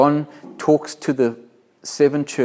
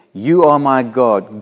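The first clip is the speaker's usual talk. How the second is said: fervent declaration; 6 dB louder, slower than usual. Acted. Preacher reading psalm, repeated.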